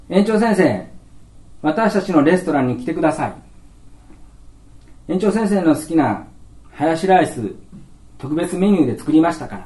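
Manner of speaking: put-on child inviting the principal to the play restaurant; child's invitation. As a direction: invite like a proud little kid.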